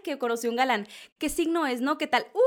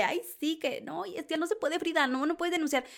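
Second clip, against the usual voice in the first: higher, softer mock whine of the know-it-alls; 5 semitones higher, 4 dB quieter than usual. Host mocking online know-it-alls, higher and softer mock whine. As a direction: mimic the lawyers-in-training with a sneer. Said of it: "todo el mundo anda de".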